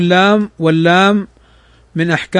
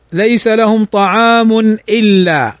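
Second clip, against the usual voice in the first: Quran recitation; slower than usual. Shown as a demonstration.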